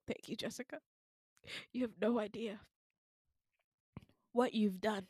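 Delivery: very soft, near-whispered thanks; hushed gratitude. Retold or imitated. Patient thanks friend for pudding, reverent hush. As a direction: thank them in mock reverence, barely voiced.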